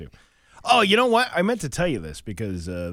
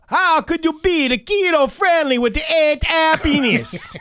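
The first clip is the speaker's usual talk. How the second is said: high, loud, laughing mock Jamaican accent; 8 dB louder than usual. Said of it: "Jamaican voice".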